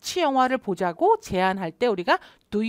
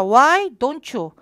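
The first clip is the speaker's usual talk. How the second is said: loud slow drill; 6 dB louder, much slower than usual. Shown as a demonstration. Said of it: "여기까지 시작".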